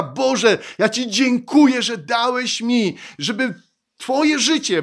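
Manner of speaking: loud, high impassioned proclamation; full-force preaching. Real, not acted. (żarliwe, donośne kazanie)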